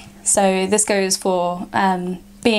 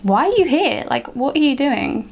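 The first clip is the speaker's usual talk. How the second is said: mock incredulous; 5 semitones higher than usual. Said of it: "And I'd be like".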